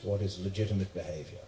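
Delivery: measured, lightly put-on posh English accent. Posh host rewording an Australian's insult, calm posh English. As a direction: explain calmly in mock posh English, pausing between phrases. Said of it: "He has that posh English accent".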